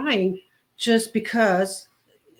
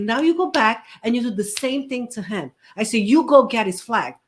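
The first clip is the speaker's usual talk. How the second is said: firm instruction; 4 dB louder than usual. Retold or imitated.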